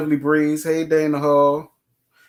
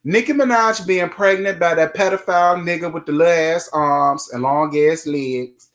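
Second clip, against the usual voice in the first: normal talking voice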